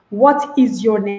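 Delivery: evenly stressed "What is your name"; careful textbook "What is your name"; stiff full-form question. Shown as a demonstration. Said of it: "sometimes you hear people asking".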